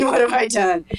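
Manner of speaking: a laugh breaking into the repeated line. Retold or imitated. Mother echoing her own dismay, laughing at herself. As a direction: giggle through the second what have I done. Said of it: "And I'm going".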